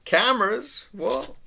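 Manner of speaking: very high, squeaky talking dog; startled dog voice. Acted. Dog reacting to being called for a photo, startled high voice. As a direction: play a dog caught off guard by cameras. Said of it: "And he's like".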